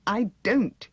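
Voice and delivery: high, loud desperate protest. A narrator's reading. Wheeler being shaken, protesting high and loud. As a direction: insist you don't know. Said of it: "he protested".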